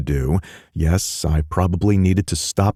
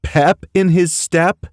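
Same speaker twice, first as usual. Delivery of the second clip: laughing; 13 semitones higher, 5 dB louder than usual. Acted. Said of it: "laughing again".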